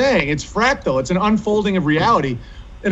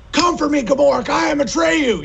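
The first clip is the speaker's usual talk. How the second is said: mock heroic shout; 7 semitones higher than usual. Man taunting online trolls with a hammed-up battle cry. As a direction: shout a dare like a hero from a film.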